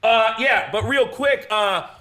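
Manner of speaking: high, livid accusation. Retold or imitated. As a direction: confront them, barely contained then accusing. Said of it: "who is livid".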